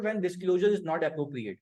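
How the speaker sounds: teacher dictating exam wording slowly; slow dictated English. Shown as a demonstration. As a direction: dictate each word for students to write. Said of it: "वो simple जबान में लिख देते हैं".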